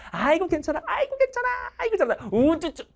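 put-on high cooing comfort for a fallen baby; high doting parent's coo; doting baby talk. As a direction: soothe the baby in a high sing-song.

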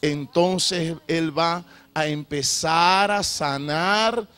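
slow, emphatic preaching. Acted. Pastor urging the congregation to repent, slow emphatic preaching. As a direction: lean on every phrase like a pulpit call. Preacher drives the point home.

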